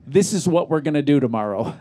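retelling her plan with a laugh; laughing while retelling a singer's plan; laughing through the quote. Retold or imitated. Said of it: "And she goes".

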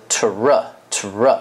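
"tr" with t and r said apart; split t and r. Shown as a demonstration. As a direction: pull the t and r of "tr" apart, slowly. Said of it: "如果说我分开写T跟R".

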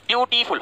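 ब्यूटीफुल divided as ब्यू, टी, फुल; ब्यूटीफुल with each syllable set apart. Shown as a demonstration. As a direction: sound out ब्यूटीफुल in three beats. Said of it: "कितने बार हमको रुकना पड़ता है".

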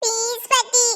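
put-on high, slow crying child begging; crying plea. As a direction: whimper the plea through tears, stretching it out. Child begging grandma to go along. (பாட்டியிடம் அழுதுகொண்டே கெஞ்சும் குழந்தை)

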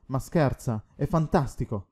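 a touch of eager excitement; a hint of thrilled delight; excited exclaim. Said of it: "esclamando eccitato".

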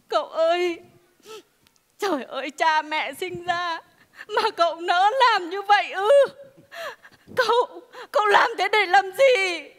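crying lament. Acted. Wife weeping over her husband's deed. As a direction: sob out the reproach.

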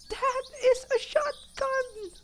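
very high, slow awed squeak; drawn-out squeal. Real, not acted. Player savouring the shotgun find, slow delighted squeal. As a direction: stretch each word out in a high squeal. Repeats it slower, still squealing.

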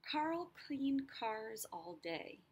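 Carl cleaned cars, slow, each hard C punched; stressed C sounds. Shown as a demonstration. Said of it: "the C sound, k, k, is repeated".

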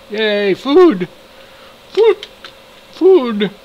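high, thrilled shout of food; overjoyed high yelp; excited squeal. Real, not acted. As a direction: squeal it with delight. Cheering at finding food.

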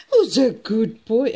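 doting pet talk with a falling swoop; loving voice. Shown as a demonstration. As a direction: coo lightly to a pet bird. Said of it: "in a loving voice again".

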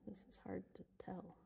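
soft unvoiced whisper. Real, not acted. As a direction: breathe the words, no voice. Whispering in the dark cave.

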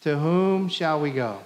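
a slow call-and-response line. Shown as a demonstration. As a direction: say it slowly together. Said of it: "Say it with me".

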